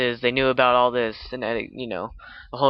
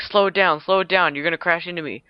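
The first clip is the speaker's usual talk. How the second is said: higher, raised mock shout of warning; urgent warning; 5 semitones higher than usual. Orbiter guy to approaching lander, urgent mock warning. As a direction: call out as if bracing for a crash.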